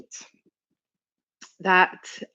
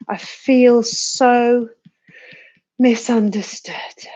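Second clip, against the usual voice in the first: whispering; 3 semitones higher, much slower than usual. Shown as a demonstration. Tapping script, slow whispered take.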